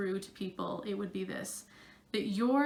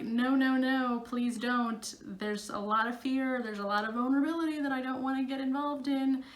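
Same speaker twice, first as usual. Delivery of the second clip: higher-pitched, pleading mock panic; fearful resistance; 4 semitones higher, 3 dB louder than usual. Performer voicing the fear of getting on stage, mildly panicked pleading. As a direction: act out a touch of fearful protest. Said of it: "strong habitual emotional response".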